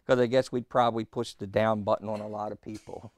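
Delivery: chuckling through the words; laughing. Real, not acted. Preacher laughs with the congregation over pushing the down button, chuckling. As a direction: laugh at the idea while you say it. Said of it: "laughs while saying it".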